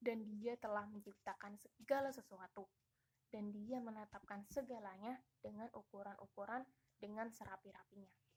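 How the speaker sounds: ordinary talk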